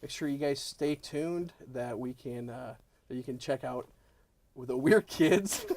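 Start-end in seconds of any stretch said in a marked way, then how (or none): 4.5-5.6 too excited. Real, not acted. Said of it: "I just got too excited there".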